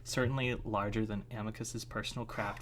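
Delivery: low-key, even story reading; story narration. A narrator's reading. Reading a chapter to listeners, even story narration. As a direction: read it evenly, a little softly.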